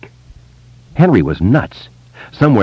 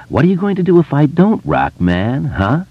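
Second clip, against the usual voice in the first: Henry, menacing taunt; 8 semitones higher than usual. A narrator's reading. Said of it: "Henry asked".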